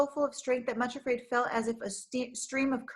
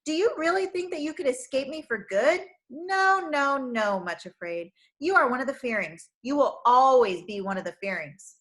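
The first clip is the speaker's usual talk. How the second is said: sneering; 3 semitones higher, 5 dB louder than usual. Acted. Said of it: "sneered Craven Fear".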